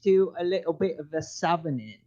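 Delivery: workshopped put-on British accent. Shown as a demonstration. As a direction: demonstrate a rough British accent. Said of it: "I could workshop a little British accent".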